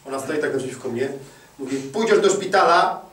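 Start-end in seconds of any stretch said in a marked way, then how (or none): 1.8-3.0 slow, firmer wife insisting; insistent wife. Retold or imitated. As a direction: lean in, slow and firm. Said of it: "a ona się trzęsła".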